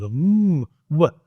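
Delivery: ordinary talk, nothing marked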